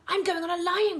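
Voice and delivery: put-on child choosing the lion; excited child. A narrator's reading. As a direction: call out happily. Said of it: "cried a third one".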